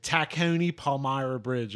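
put-on slow Philly-accented Tacony, fronted OH. Girlfriend from Philly proving herself, Philly accent. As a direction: say Tacony as "ta-keh-oh-nee", Philly style. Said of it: "she says it the right way".

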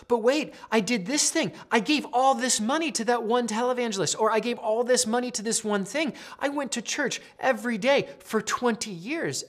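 high-pitched imitation pleading; mock protest. People shut out of heaven to Jesus, acted protesting.

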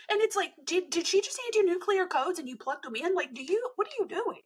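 high, disbelieving ribbing; incredulous teasing. Real, not acted. To the friend, teasing her blind trust, incredulous. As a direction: pitch it up in amused disbelief.

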